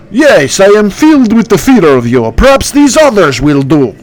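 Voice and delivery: a hint of a sneering phantom; Bertu voice. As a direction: ghost king feigning fear. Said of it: "that's my impression".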